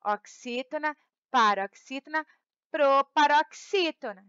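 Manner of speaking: "oxítona" and "paroxítona" lifted at the end, "proparoxítona" falling; counting off, landing on proparoxítona. Shown as a demonstration. Teacher showing pupils the syllable count, closing on a falling "proparoxítona". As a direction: list them with pauses, closing firmly on "proparoxítona".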